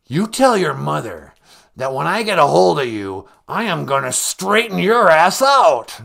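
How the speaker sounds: mock furious dad. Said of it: "That's how he talks to his daughter".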